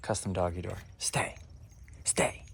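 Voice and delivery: hushed, whispered commands; whispering. Real, not acted. Owner to dog while Millie naps, whispering. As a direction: keep it down for someone napping. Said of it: "I'm whispering because Millie's".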